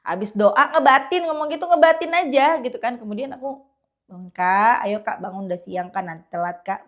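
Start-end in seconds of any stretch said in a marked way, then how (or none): 4.1-6.9 kind, coaxing wake-up call; speaking gently. Retold or imitated. Mother gently waking her older child, tender. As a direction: coax the child awake without yelling. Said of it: "Aku ngomongnya baik-baik".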